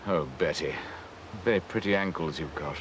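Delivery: lightly acted old man; old man paying a feeble compliment. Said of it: "like a very, very old man".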